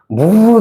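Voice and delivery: high, loud "woo" of speed; a whoop for speeding cars; whooshing noise. Shown as a demonstration. Teacher showing cars racing, excited whoop. Imitates fast cars rushing by.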